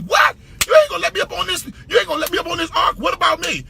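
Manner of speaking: furious complaint at being left off the ark; outraged giraffe. Acted. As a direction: shout it like the left-behind giraffe. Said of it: "He was pissed".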